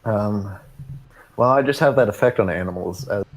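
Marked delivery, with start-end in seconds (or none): 1.4-3.1 a light, hammed-up Indian accent; barely-there joke Indian accent; bad Indian accent. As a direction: toss it off in a mock Indian accent. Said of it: "a really, really bad Indian accent".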